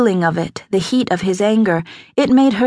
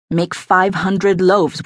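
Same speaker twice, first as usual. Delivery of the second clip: slow, measured command; firm order; slower than usual. A narrator's reading. Aldermaston instructing his cook to prepare for flood, firm order. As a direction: state the order slowly and evenly.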